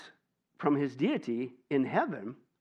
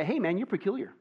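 playful greeting; 5 semitones higher than usual. Shown as a demonstration. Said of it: "Uh, say".

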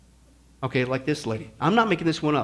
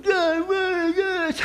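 mock angry complaint; 8 semitones higher, 3 dB quieter, much slower than usual. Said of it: "get mad at God".

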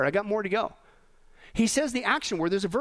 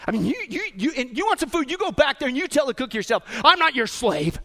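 mock yell back; 3 semitones higher than usual. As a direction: play a fed-up waiter snapping at a customer. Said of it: "they actually yell back".

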